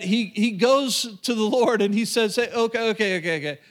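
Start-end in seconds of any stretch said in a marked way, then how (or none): 2.4-3.6 hesitant, placating mock timidity; timid, cautious. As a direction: play a wary man stalling, lightly acted. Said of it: "afraid and, and cautious, you could say".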